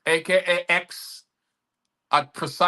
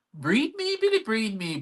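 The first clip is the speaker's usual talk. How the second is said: high breathy-sounding mock plea, pitched up; imitating the helper; 7 semitones higher than usual. Poet mocking the helper pleading with Billy, higher. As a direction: play the helper begging her lover, pitched up. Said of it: "she was like".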